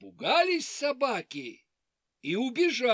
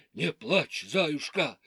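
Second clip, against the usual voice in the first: low dog voice; 5 semitones lower than usual. Acted. Dogs comfort hare.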